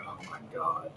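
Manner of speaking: low, soft, defeated oh my God; deflated groan. Retold or imitated. Reacting to Frankie's management talk, low and defeated. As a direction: sink into despair. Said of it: "I was like".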